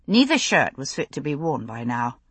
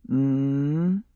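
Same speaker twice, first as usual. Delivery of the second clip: murmured hum; 4 semitones lower than usual. A narrator's reading. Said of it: "he murmured against her mouth".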